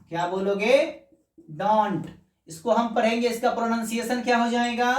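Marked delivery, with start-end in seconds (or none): 1.5-2.1 "डोंट" with long o and hard final t; Indian-style pronunciation. Shown as a demonstration. Teacher showing the Indian reading, full vowel and t. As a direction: sound out every letter of "डोंट". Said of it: "भारतीय भाषा में Indian language बोलना है तो डोंट".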